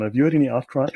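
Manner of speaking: hiccuping mid-question; hiccups. Real, not acted. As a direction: talk through the hiccups. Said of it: "I'm just hiccuping".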